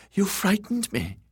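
high, fluttery eunuch, scared; frightened eunuch. A narrator's reading. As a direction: squeak it out high and shaken. Varys frightened at knifepoint.

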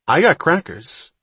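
pleased with himself, pushing forward; eagerly. A narrator's reading. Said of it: "Wapner replied eagerly".

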